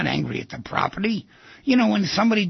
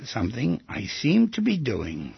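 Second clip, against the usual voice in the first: phrase-by-phrase, as for note-takers; deliberate, spaced-out delivery; dictation. Shown as a demonstration. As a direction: dictate in separate phrases with long pauses. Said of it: "Write that down".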